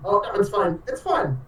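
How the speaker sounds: high, strained insistence; strained reassurance. Acted. Player voicing Usador with his head twisted, strained reassurance. Insists he's fine while hurting.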